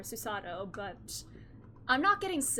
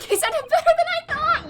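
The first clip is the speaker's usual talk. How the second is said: loud, high burst of real laughter through the words; laughing while reading; 14 dB louder than usual. Real, not acted. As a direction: crack up mid-sentence. Cracks up while reading aloud.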